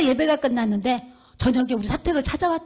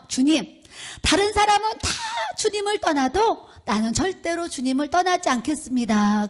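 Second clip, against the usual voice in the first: lightly acted solemn promise; emphatic vow; 4 semitones higher than usual. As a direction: swear loyalty like a devoted disciple. Acting out Peter's vow to Jesus.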